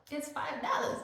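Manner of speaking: mock shock. Mock shock at checkout price.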